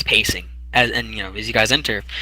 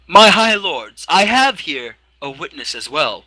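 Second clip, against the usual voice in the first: loud raised opening, then measured; lightly voiced proud Inquisitor; formal Inquisitor; 4 semitones higher, 4 dB louder, slower than usual. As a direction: address the court with ceremony. Inquisitor addresses tribunal.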